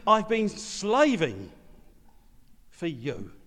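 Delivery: a resentful son confronting his father; resentful older son. Acted. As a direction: drag out each grievance like years of slaving. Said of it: "Can you feel the antagonism".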